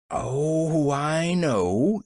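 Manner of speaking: lightly amused, drawn-out realization; chuckling. A narrator's reading. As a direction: let amusement colour it. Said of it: "she chuckled".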